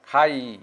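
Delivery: খাই stretched, its final ই held; drawn-out ending. Shown as a demonstration. Teacher showing what sound ends the verb, খাই drawn out. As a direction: hold the end of খাই long. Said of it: "খাই উচ্চারণ করলে কি হচ্ছে".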